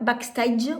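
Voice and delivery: "Backstage" said the French way, bak-STAZH; French-style pronunciation. Real, not acted. Vlogger unsure of the palette's name, "Backstage" Frenchified as bak-stazh. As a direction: say "Backstage" with French ah in the last syllable. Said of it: "Désolée pour la prononciation".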